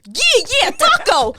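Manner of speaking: put-on Mexican accent. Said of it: "This is my Mexican".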